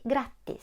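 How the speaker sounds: "grattis" with a short, clipped a. Shown as a demonstration. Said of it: "Не забуваємо говорити коротку «а»".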